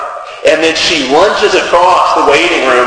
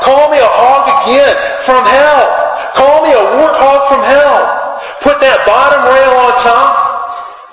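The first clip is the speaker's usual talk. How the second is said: much higher, defiant mock scream; screaming at God; 11 semitones higher, slower than usual. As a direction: hurl the words up at heaven, high and defiant. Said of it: "she's screaming at God".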